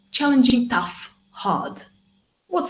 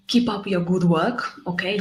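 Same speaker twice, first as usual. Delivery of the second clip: normal talking voice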